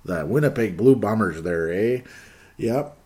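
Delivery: joking Canadian with an "eh"; Canadian accent. Acted. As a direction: put on a playful Canadian lilt. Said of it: "he's got a Canadian accent".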